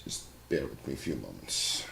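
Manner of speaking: sore throat, hoarse and rough; hoarse sick voice. Real, not acted. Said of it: "I sound like a deep-voiced soul singer".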